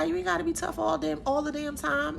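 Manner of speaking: normal talking voice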